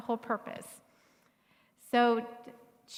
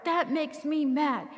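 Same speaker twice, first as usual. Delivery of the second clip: mock angry child; 7 semitones higher, 6 dB louder, slower than usual. Child voiced in parenting story.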